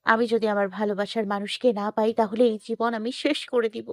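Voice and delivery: high young-woman voice, acted tearful; softly acted lovelorn despair, pitched high. A narrator's reading. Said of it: "কান্না করতে লাগলো". (কাঁদো কাঁদো মেয়েলি গলা)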